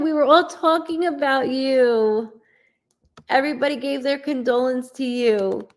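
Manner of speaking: lovingly sending well wishes to a sick friend; tender messages. Real, not acted. Medium sending love messages.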